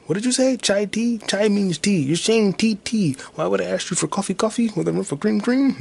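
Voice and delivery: lightly mocked Indian accent, high and loud; a hint of an Indian accent, quoting the movie scene. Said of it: "Did I do the Indian accent?".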